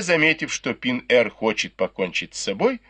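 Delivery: plain reading voice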